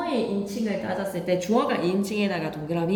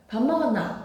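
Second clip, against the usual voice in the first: Gyeongsang dialect; 3 semitones higher than usual. Shown as a demonstration. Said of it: "경상도 사투리에".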